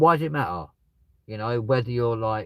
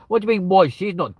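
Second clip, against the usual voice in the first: surprised; 11 semitones higher, 9 dB louder than usual. Real, not acted. Reacts to chat comment.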